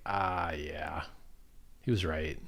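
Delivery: low, quiet grudging admission; grudging critics. Retold or imitated. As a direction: play the critics admitting defeat. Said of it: "they're gonna be like".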